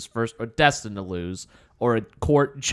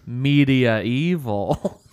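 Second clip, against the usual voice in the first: slow pun; much slower than usual. Real, not acted. Pun delivered slowly.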